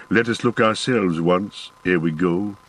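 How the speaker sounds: a hint of a solemn dwarf; dwarf Gimli. Dwarf invites company to look.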